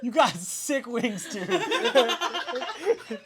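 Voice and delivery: high, bright-eyed questions; eager kid voice. Acted. Young son quizzing the guests, high and eager. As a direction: ask like a curious boy.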